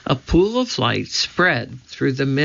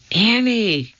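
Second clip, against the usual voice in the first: urgent whispered name, breath only; 9 semitones higher than usual. A narrator's reading. Jack whispering to Annie in the moat, unvoiced. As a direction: hiss her name in the dark without voice. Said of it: "he whispered".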